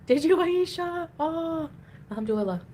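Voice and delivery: high and slow delighted question; excited. Real, not acted. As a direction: gush with delight. Delighted reaction to chat.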